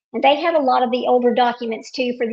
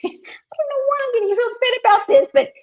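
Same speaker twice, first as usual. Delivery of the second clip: laughing at herself; 11 semitones higher, 4 dB louder than usual. Real, not acted. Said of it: "this is getting me so upset".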